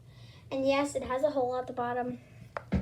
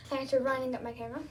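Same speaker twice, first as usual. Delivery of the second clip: fast, breathless; out of breath; much faster than usual. Real, not acted. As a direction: still panting from running. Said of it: "Sorry, I'm out of breath".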